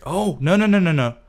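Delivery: frantic no-no-no. Real, not acted. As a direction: panic as the pet slips away. Pet escaping underwater, panic.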